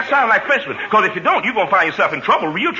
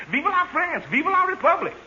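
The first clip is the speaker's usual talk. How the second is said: a soft mock French rallying cry up high; lightly hammed French cheer; 9 semitones higher, 5 dB quieter than usual. Shown as a demonstration. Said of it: "The French always yells that".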